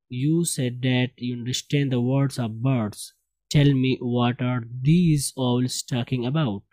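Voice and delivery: slow, measured read-aloud; model reading. Shown as a demonstration. Teacher reads story to class, slow model reading. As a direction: read it out slowly for learners.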